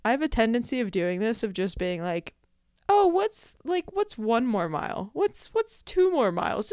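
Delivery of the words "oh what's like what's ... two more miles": mock breezy excitement. Talking herself into extra miles.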